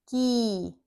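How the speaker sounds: "key" with a held ee; long E sound. Shown as a demonstration. Teacher reads the E Y example, long ee held. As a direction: stretch the vowel in "key" to a long ee. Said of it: "long E sound".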